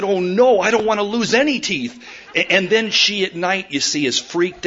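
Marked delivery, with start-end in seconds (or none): 0.0-2.0 put-on dismayed little girl. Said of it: "and she said".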